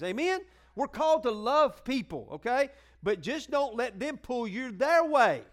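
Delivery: fervent pulpit build; full-force preaching. Real, not acted. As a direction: preach it out with rising fire.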